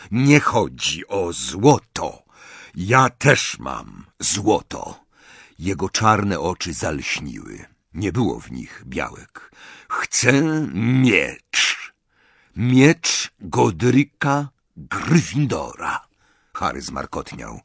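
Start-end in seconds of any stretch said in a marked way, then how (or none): 0.1-5.0 slow, firm goblin. Acted. Goblin insists to Harry, slow and firm. 9.9-16.1 very slow, weighty goblin voice; slow goblin demand. Acted. Goblin names his price to Harry, slow and weighty.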